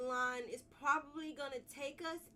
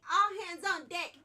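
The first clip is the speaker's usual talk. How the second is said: hype shout; 4 semitones higher, 10 dB louder than usual. Real, not acted. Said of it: "Everybody say it with me".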